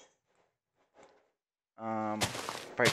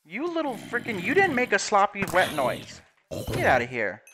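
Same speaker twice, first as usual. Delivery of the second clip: scared horror game streamer; 8 semitones higher, 5 dB louder than usual. Real, not acted.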